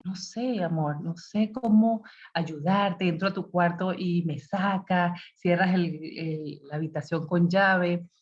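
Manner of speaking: madre sincera, pausada y suave; vulnerable, sincero. Shown as a demonstration. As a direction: admite que no sabe cómo ayudar, despacio. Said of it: "Me declaro un poco vulnerable". (madre vulnerable hablando con sinceridad al hijo)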